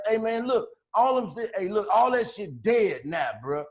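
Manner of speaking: lightly voiced soft-spoken tough talk; soft tough guy. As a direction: imitate a mild-voiced guy warning you off. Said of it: "this how this nigga talking to me".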